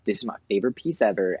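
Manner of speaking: fast, bright gush over a new piece; thrilled quick rave about your favorite piece; gushing excitement. Retold or imitated. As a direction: rave about it like it's the best ever. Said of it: "Where you're like, "Oh my God".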